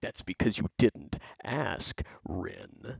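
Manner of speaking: slow, gritty, close, drawn-out voice. Giving a sample quote of a character who gets in close to intimidate, gritty Lyle voice. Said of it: "I got to get grittier".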